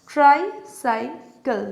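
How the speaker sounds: "ট্রাইসাইকেল" slowly in three separated parts; syllable by syllable. Shown as a demonstration. Teacher pointing out three syllables found, syllable by syllable. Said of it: "তিনটে syllable পেলাম".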